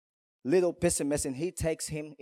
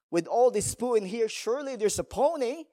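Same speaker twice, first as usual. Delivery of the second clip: put-on high, delighted boy's voice with a laugh; gleeful laugh as the optimist boy finds a pony in the poo; excited little boy; 8 semitones higher, 4 dB louder than usual. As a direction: squeal it out like a thrilled kid.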